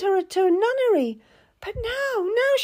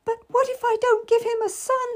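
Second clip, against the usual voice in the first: wailing. A narrator's reading. Lady wails her fear to Cat, high despairing wail. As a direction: cry it out in despair. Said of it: "she wailed".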